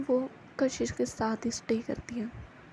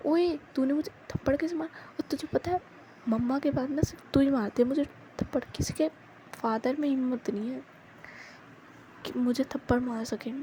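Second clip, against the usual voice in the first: indignant protest; 2 semitones higher than usual. Acted. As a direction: act outraged at being slapped. Kashish protests being slapped.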